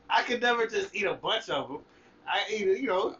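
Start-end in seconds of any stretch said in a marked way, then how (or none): 0.0-1.8 laughing. Real, not acted. Laughing while talking.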